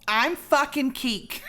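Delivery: loud, slow, furious sign-off; angry. Acted. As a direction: spit out your own name in mock rage. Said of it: "You're so angry".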